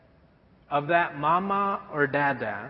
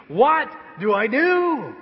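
much higher, loud and slow; helpless cry; 7 semitones higher, 4 dB louder, slower than usual. Acted. Pastor admitting to the church he's still lost, a loud slow cry. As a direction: stretch it out, comically lost. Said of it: "I'm still asking".

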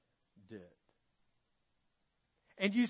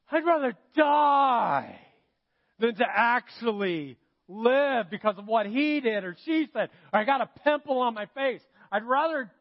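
put-on teenager; 3 dB louder than usual. Preacher mocks Jonah as a whiny teenager. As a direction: ham up a sulky teenager's melodrama. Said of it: "Sounds like a teenager".

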